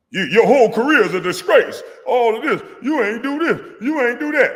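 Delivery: high, loud, squealing mock outrage; mocking critic's rant. Player mimics commentator trashing his career, high mocking shout. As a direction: imitate the critic in a shrill, loud falsetto yell.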